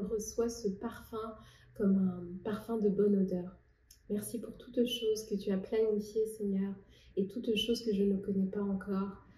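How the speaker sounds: soft, sincere spoken prayer. Real, not acted. Woman thanking God before sharing her poem, prayerful. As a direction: talk quietly and intimately to God.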